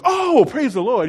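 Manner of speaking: mock holy sister; church lady impression. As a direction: imitate the old church sister. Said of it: "she'd do her".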